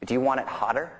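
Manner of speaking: lightly imitated Cockney accent; a stab at thick Cockney. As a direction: retell it in a mock Cockney accent. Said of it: "in this real thick Cockney accent".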